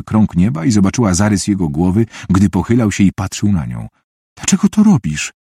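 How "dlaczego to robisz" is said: high-pitched, tearful plea; distraught, acted tearful question; sobbing. A narrator's reading. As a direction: plead as if through sobs. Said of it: "spytała, szlochając".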